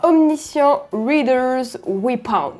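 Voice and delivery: slow, self-conscious attempt at an English accent. Real, not acted. French vlogger reads out an English webtoon title, attempted English accent. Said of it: "Avec mon superbe accent anglais".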